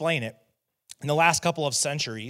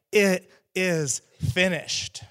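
drawn-out cry; 5 semitones higher, much slower than usual. Acted. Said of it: "so that he could scream these last words".

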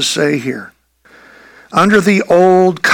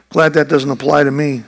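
relieved self-talk; 4 semitones lower, faster than usual. Pretend. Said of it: "you might say to yourself".

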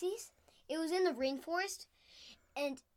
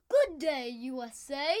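put-on Australian accent; 5 dB louder than usual. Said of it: "doing an Australian accent".

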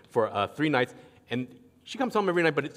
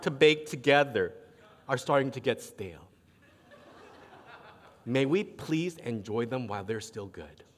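imitating calm, kind daughter; 3 semitones lower than usual. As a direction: sweetly coax daddy, politely. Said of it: "calm, kind voice".

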